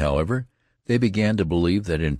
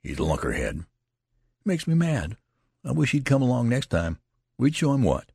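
mildly exasperated soldier; grumbling exasperation, rising in pitch; 6 semitones higher than usual. A narrator's reading. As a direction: burst out in exasperation. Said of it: "exclaimed with sudden exasperation".

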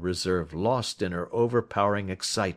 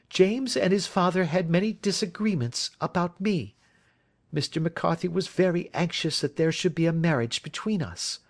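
put-on higher, earnest young woman; young woman pleading for her friend, higher and earnest; Miss Turner voice; 9 semitones higher than usual. A narrator's reading. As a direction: plead his innocence, pitched up and eager.

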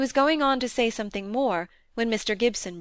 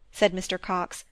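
plain reading voice

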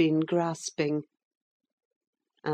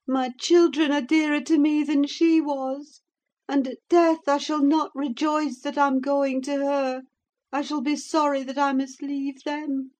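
bitterly; 11 semitones higher, 6 dB louder than usual. A narrator's reading. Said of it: "she continued bitterly".

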